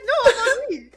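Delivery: mock French, high and loud through laughter; French man. Host as Kim playing Frenchman Henry, mock French accent, laughing. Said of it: "a French man named Henry".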